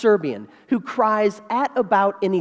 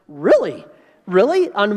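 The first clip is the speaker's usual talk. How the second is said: bride's disbelief; 3 dB louder than usual. Acted. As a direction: act the exasperated bride demanding an answer. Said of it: "looking at me like".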